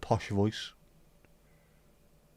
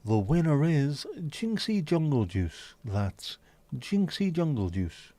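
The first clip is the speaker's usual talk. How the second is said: mock announcer; 4 semitones higher, slower than usual. Announcing a winner like a host.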